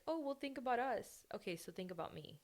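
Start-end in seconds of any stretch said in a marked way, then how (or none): 0.1-1.3 higher, whiny mock plea; mocking loved ones. Mocking people who love her, whiny high plea. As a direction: parrot their plea with scorn. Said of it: "They're like".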